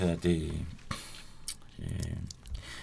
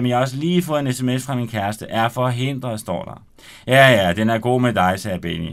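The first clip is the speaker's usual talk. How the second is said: lively read-aloud narration with voiced characters; story narration; 4 dB louder than usual. Author reading his novel aloud on radio, animated. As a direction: read the chapter to the studio audience with energy.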